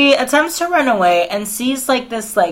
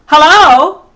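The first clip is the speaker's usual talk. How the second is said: high, loud try at transatlantic "Hello?"; transatlantic attempt; 8 semitones higher, 9 dB louder than usual. Friend who says she cannot do the accent trying it, high. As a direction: attempt a prim old-movie accent. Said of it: "I cannot do a transatlantic accent".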